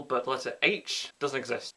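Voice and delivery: H punched and falling; stress on H. Shown as a demonstration. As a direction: hit the word H. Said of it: "stresses H".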